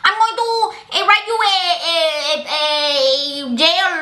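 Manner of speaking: high, fast mock-furious threats; mad teacher. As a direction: rattle off threats as an imitated irate teacher. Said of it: "she'll be so mad".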